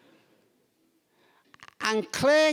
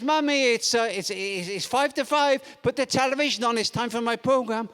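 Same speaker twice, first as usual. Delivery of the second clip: lightly voiced little boy, insistent; louder, stumbling kid's demand; demanding child; 3 semitones higher, 3 dB louder than usual. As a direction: pester mum like an impatient child. Small boy demanding his television program.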